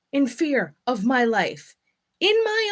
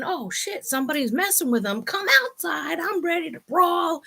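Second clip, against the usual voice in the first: mock ready to brawl; 5 semitones higher than usual. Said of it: "me, am thinking".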